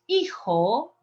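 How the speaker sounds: "hijo" begun on the vowel, EE-ho; silent H. Shown as a demonstration. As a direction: say "hijo" with no H at the start. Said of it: "Don't pronounce the H".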